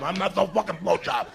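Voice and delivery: put-on little boy yelling at the babysitter for his cash; angry yell. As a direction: scream for the money back. Kid yelling back in the quarrel.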